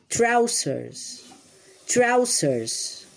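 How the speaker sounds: trousers said slowly and clearly; model word. Shown as a demonstration. Teacher models trousers for children, clear and deliberate. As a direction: model trousers for the class to repeat. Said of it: "se dicen trousers".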